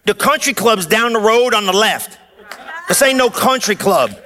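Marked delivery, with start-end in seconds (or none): 2.9-4.1 preaching shout. Real, not acted.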